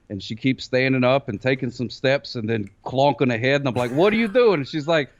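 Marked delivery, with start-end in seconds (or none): 3.9-4.5 higher, mock-bewildered question to a baby; exasperated parent, retold. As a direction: question the baby in playful disbelief.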